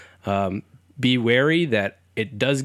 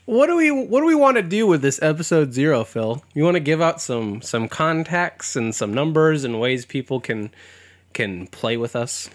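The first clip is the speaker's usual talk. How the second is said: creepy; 4 semitones higher than usual. Acted. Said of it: "the creepiness of the way I set that up".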